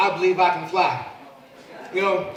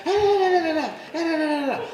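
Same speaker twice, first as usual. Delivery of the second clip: much higher mock kid squabble; kids yelling imitation; 11 semitones higher than usual. Comedian imitating his sons yelling while arguing, high squeal. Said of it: "I hear 'em yelling".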